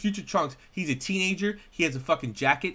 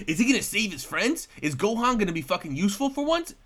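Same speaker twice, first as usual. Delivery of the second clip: higher-pitched dramatic episode-teaser narrator, questions swinging up; cliffhanger announcer; 5 semitones higher than usual. Retold or imitated. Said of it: "They would be like".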